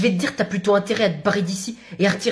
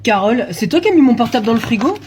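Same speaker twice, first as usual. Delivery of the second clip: louder, indignant question; loud accusation; 2 semitones higher, 7 dB louder than usual. Acted. Man calls out to Carole about his phone in the fridge, loud. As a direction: call her out over the phone.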